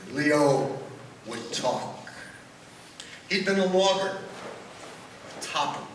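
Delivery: poem recital, measured pauses; cowboy poetry. Acted.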